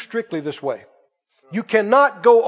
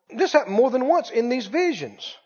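normal talking voice

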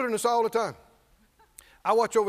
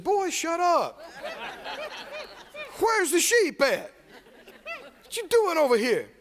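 scolding big brothers; 8 semitones higher than usual. Acted.

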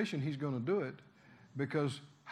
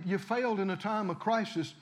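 ordinary talk, nothing marked

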